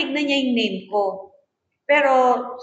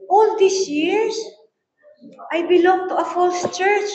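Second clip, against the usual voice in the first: imitating her crying; 7 semitones higher, 4 dB louder than usual. Preacher retells the member's tearful realisation, mock tearful. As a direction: voice her weeping realisation, lightly. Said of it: "umiiyak siya".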